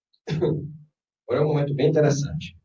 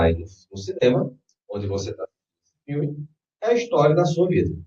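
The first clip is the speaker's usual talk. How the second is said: guided meditation. Acted. Leads a guided visualization.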